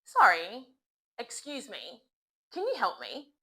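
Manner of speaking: polite, apologetic request to a stranger; apologetic native request. Shown as a demonstration. Native speaker stopping a stranger, apologetic and polite. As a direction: sound sorry for interrupting. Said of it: "Repeat after me".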